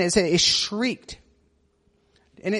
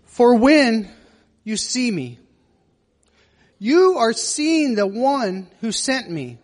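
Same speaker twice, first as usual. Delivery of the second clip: slow, mildly impassioned scripture monologue; lightly acted preacher's plea, drawn-out words; Jesus pleading to crowds. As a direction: plead with the crowd, long pauses between phrases. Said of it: "somewhat close to maybe how Jesus would have read this".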